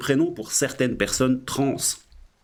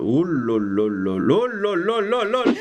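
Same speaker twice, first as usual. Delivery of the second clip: drawn-out dismay; 2 semitones higher, slower than usual. Real, not acted.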